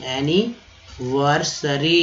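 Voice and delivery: एनिवर्सरी stretched very slowly, rising at the end; slow demo. Shown as a demonstration. Teacher modelling एनिवर्सरी slowly for students. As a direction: draw out एनिवर्सरी carefully. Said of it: "बहुत important है दोस्तों".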